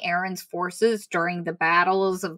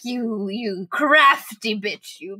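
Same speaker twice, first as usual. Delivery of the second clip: a very slow, drawn-out mock scold; mock indignation; much slower than usual. Real, not acted. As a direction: stretch it out, fondly outraged. Speaker reacts to Kissen waiting.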